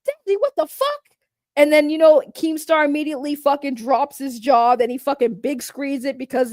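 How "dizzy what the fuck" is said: higher incredulous mock shout; hammed-up shocked yell; mock Boogie yelling. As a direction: imitate a man yelling at his girlfriend. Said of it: "you just see him say".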